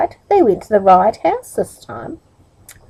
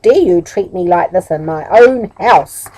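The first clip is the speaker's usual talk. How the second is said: angry; 4 dB louder than usual. Acted. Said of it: "said Middle angrily".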